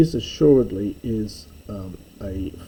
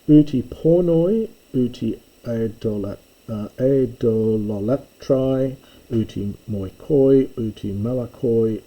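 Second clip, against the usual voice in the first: reading Greek aloud. Shown as a demonstration. Reads Greek list of sinners.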